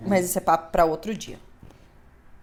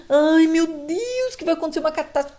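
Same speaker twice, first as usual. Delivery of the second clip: anxious person; 9 semitones higher, 4 dB louder than usual. Retold or imitated. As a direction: whine it, then rush it. Imita pessoa ansiosa. (voz ansiosa e aflita, aguda)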